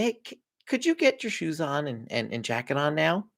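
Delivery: "could you get your shoes on" asked softly as a question, lifting on "now"; direction as question. Shown as a demonstration. Parent trying to be friendly, "now" lifted as a question. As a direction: end "jacket on now" with a questioning rise. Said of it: "phrase our directions as a question".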